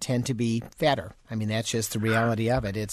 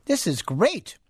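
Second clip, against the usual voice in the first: appreciative words round a mouthful; talking while chewing; 3 semitones higher, slower than usual. Real, not acted. Radio host tasting the finished recipe, talking while chewing. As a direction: savour it with food in your mouth. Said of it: "You better stop chewing".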